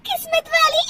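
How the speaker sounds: high giggly repeat bursting into laughter; laughing echo. Acted. Daughter-in-law hearing herself called lucky, laughing. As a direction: echo the compliment and crack up. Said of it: "हंस क्यों रही हो".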